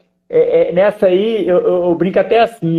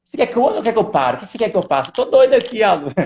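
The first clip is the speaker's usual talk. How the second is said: talking car; 5 semitones higher, much faster than usual. Acted. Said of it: "o carro vai falar assim com você".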